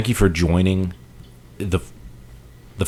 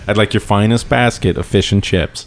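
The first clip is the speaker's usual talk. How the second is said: put-on English accent. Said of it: "Take, take it again".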